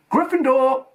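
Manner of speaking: high, loud triumphant shout; hat shouting. A narrator's reading. The hat announcing to the whole hall, high loud shout. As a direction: call out the house to the hall. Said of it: "When it finally shouted".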